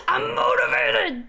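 shrieking with excitement; high excited shout. Acted. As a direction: squeal it out, way up high. Hyped shout after the win.

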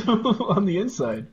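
high, drawn-out question after a laugh; amused laughing. Real, not acted. Friend echoes the scared player's words, laughing.

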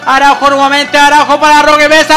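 brisk football commentator voice; live play-by-play. Acted. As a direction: call the match as it happens. (narración de partido en directo)

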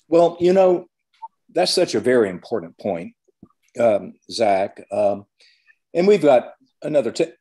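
talking through hiccups; hiccuping between words. Real, not acted. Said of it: "I'm sorry I'm hiccuping".

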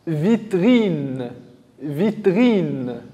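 "vitrine" stretched into vi and a long trine; drawn-out example word. Shown as a demonstration. Teacher shows pupils the vi in a word, drawn out. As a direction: linger on both syllables of "vitrine". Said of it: "La syllabe vi comme".

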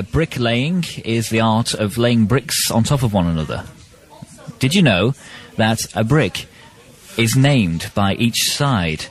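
slow, measured fact read; mock educational read. Co-host delivers bricklaying trivia for the promo, slow educational read. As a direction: pause before each bricklaying term as if lecturing.

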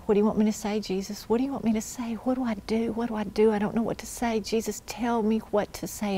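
softened, mildly pleading prayer; retold anxious prayer. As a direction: quietly plead for guidance, as if reliving it. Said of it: "And I was praying".

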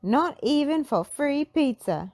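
high refusing whine; Shaggy voice. A narrator's reading. Shaggy refusing to guard the oven, high and whiny. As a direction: nope. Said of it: "Shaggy said".

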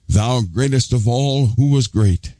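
slow, slightly grand mock prayer; mock old-English prayer. Preacher mimicking how people address the Lord, mock old-English prayer. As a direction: lightly put on a stately prayer, drawn out. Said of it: "start talking old English".

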